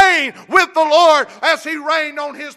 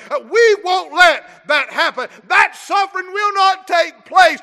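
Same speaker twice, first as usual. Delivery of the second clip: Peter's indignant vow. Retold or imitated. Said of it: "Peter had in his mind".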